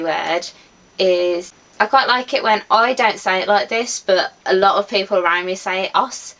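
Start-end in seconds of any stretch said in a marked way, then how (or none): 5.9-6.3 "os" said with no h sound, like "oss"; dropped-h "os". Shown as a demonstration. Vlogger shows her friends' Midlands word for horse, h dropped. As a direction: drop the h of horse: "os". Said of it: "which means horse".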